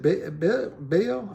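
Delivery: high, Virginia-tinged call of a name; imitating a Southern friend pleading; Southern accent. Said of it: "I can't get her exact accent".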